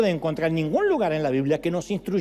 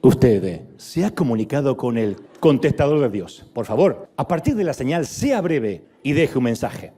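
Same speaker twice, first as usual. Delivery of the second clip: answering machine voice; 7 semitones lower, 4 dB louder than usual. Pretend. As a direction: speak like a robotic answering machine. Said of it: "un contestador automático".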